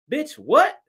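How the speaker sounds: high, incredulous snap of disbelief; disbelieving outburst at an insult; stunned outrage. Retold or imitated. Reacting to the booker's insult.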